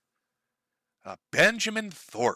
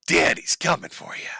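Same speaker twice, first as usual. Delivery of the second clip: creepy whisper. Acted. Creepy dad impression.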